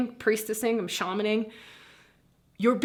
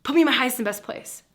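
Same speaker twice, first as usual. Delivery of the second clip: earnest prayer; 3 semitones higher, 6 dB louder than usual. Shown as a demonstration. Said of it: "and then go".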